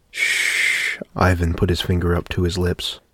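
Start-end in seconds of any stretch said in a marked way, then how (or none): 0.1-1.0 breathy unvoiced shush; hushing. A narrator's reading. Finger to lips, calming family.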